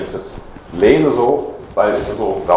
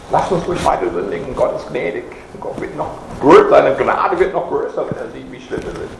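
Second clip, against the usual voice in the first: higher, mock-pious voice of people who excuse sin; mocking false teachers; 4 semitones higher than usual. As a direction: imitate the smug claim with a light sneer. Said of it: "Das Leute das behauptet haben". (spöttisch nachgeahmte Irrlehrer, höher und selbstgefällig)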